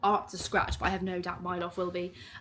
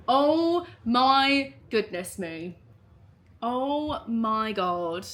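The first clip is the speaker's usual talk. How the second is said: welling up; 2 semitones higher, 4 dB louder, much slower than usual. Real, not acted. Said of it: "why am I actually welling up".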